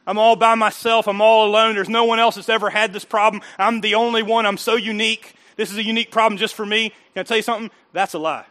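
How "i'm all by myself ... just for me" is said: mock self-pity, loud and raised; self-pitying complaint. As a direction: play the lonely victim. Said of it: "If you're saying that".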